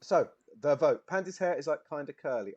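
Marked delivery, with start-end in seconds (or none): 1.1-2.5 Brummie accent. Shown as a demonstration. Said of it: "you're used to my Brummy".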